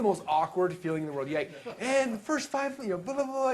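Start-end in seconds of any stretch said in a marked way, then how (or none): 1.8-3.5 much higher, hammed-up pitch voice; lightly mocking his younger self selling from the stage; mock sales pitch. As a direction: parody yourself pitching on stage. Mimicking his own failed pitch.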